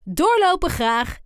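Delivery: luid roepen, hoger, naar achteren; roepend. A narrator's reading. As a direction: roep de jongens achteraan toe. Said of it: "Dan roept hij naar de jongens". (leraar roept de treuzelende jongens achteraan luid toe)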